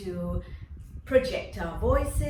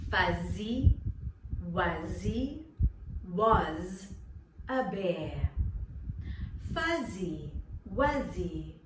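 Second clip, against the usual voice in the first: slow tongue twister; slower than usual. Shown as a demonstration. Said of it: "You repeat after me".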